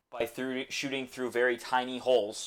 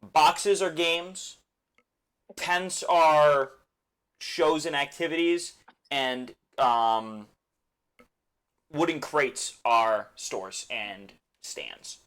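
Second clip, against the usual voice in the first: slow, deliberate explanation; 2 semitones higher, much slower than usual. Acted. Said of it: "quick little key for the festival".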